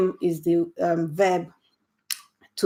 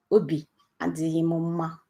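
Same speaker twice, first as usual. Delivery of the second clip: sad and subdued; 5 dB quieter than usual. Shown as a demonstration. Teacher modelling the sad phrase, softer and downcast. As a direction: sound a little down. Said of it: "that means I'm sad".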